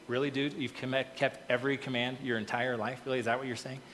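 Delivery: mildly sarcastic disbelief; dry, understated mock incredulity. Preacher paraphrasing Jesus's reply to the rich man, mildly sarcastic. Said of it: "To which Jesus replied sarcastically".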